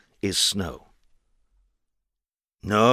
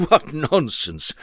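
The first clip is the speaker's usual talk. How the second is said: snort; 5 semitones higher, 3 dB louder, slower than usual. Acted. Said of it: "snorted Mister Happy".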